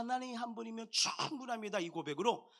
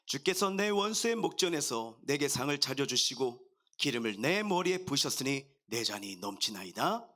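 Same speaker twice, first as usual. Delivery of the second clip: measured, lower-pitched psalm recitation; scripture reading; 4 semitones lower than usual. Acted. Pastor reading Psalm 23 to the congregation, solemn recitation.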